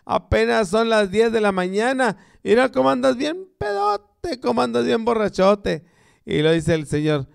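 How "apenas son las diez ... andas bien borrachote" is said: higher mock wife nagging her husband; scolding wife. Wife nags her drunk husband at ten in the morning, in a higher mock voice. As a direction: scold him in a shrill-ish wife voice, hammed up.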